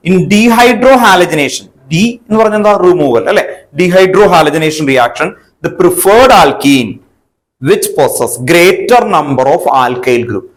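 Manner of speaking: very slow, word by word; slow dictation. Shown as a demonstration. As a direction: dictate the rule so students can write it. Teacher dictates the rule. (വളരെ പതുക്കെ പറഞ്ഞെഴുതിക്കുന്നു)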